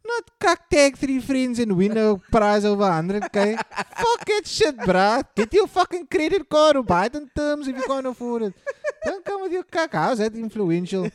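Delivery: loud, high, heated rant; angry rant. Real, not acted. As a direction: shout down the giveaway scam. Ranting about influencer giveaways.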